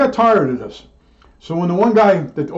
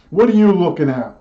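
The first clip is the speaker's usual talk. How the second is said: mock-menacing kid glaring at a doll; kid's mock threat; 3 semitones higher than usual. Child snaps at a baby doll, mildly menacing. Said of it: "like that".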